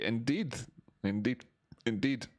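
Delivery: lightly put-on impression of a film character; a hint of a character's catchphrase, repeated with pauses; Sick Boy. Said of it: "That was his Sick Boy thing".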